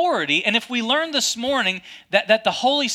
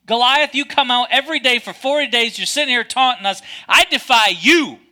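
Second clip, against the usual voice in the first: defiant challenge; 2 semitones higher, 5 dB louder than usual. Acted. David defying Goliath.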